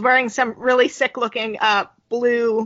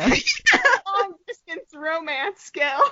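slow teasing; 4 semitones higher, much slower than usual. Real, not acted. Slowed joke, teasing.

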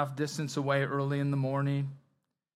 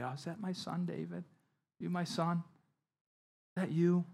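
mock-sweet, much softer and higher; syrupy; 3 semitones higher, 3 dB quieter than usual. Saul sweet-talking David, syrupy and insincere. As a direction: pour on the syrup, honeyed and false. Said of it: "pour on the syrup again".

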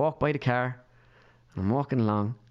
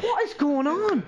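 slow, high baffled question; retold bewilderment; slower than usual. He hears his mother's name shouted, retold high and baffled. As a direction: stretch it out in mock disbelief.

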